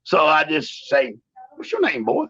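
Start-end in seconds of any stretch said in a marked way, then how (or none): 1.6-2.3 high mocking taunt, raised pitch; cocky wrestler calling out a rookie; taunting challenge. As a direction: bark it at the new guy like a cocky heel. Taunting Ken in locker room.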